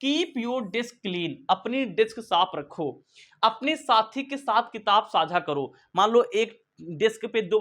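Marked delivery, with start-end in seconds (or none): 0.0-1.3 very slow, clear instruction; slow demo instruction; slow model sentence. Shown as a demonstration. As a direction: drag it out for learners. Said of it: "तो इसको कैसे बोलेंगे?".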